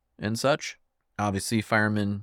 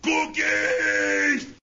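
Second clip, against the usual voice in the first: excited shout. Pretend. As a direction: cry out in delight. Excited about cookies.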